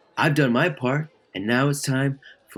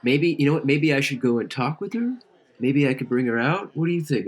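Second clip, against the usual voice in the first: eager idea; 6 semitones higher than usual. Acted.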